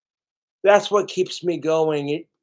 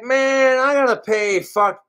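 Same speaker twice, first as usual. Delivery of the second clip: excited fan; 4 semitones higher than usual. Retold or imitated. A fan praising Cobra's videos, mock excited. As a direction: gush like an eager viewer.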